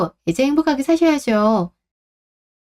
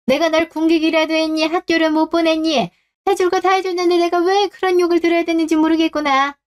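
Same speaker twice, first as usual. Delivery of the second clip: higher, wounded mother's reproach; mother scolds her ungrateful son, indignant and higher; indignant scolding; 6 semitones higher than usual. Acted. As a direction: throw his ingratitude back at him.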